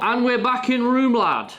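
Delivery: loud, high northern English call; northern accent. Acted. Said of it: "That's very northern".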